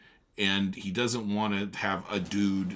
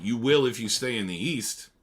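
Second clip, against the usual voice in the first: curt; 3 semitones higher, 6 dB louder than usual. A narrator's reading. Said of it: "I answered shortly".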